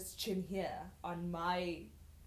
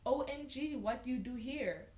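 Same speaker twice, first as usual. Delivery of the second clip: higher mock Russian accent; 4 semitones higher than usual. Reader mimicking Sasha's broken English, mock Russian accent. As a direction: imitate her non-native Russian accent. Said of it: "why does she not just speak normally".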